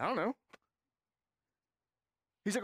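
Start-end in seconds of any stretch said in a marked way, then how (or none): 0.0-0.3 put-on clueless child.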